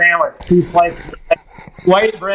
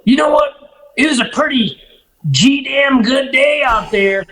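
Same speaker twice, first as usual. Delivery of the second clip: put-on generous drunk-ish client; 6 semitones higher than usual. Client tipping the guide after a good day, high grand voice. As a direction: hand out the reward grandly. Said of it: "he goes".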